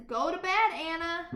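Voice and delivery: firm mother. Acted. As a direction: end it like a tired mother. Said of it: "who finally says".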